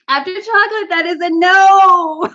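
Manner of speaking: slow, loud laughing refusal. Real, not acted. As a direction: drag it out while laughing. Disgusted reaction, laughing.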